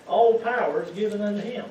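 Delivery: "All" hit loud at the start; preacher's weighty emphasis on "All"; stress on ALL. Real, not acted. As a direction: lean hard on the word "All". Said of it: "if it says all power".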